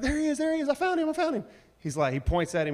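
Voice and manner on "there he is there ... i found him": put-on a kid squealing high with excitement; excited kid. Son's friend finding Waldo, squealing high and excited. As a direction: shout it out like spotting Waldo first.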